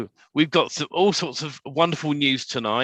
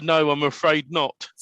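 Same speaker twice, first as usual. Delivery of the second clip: deadpan punchline. Retold or imitated. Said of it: "He said".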